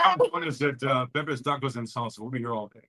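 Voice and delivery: promo it like a radio DJ. Pretend. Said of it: "You put on your D J voice".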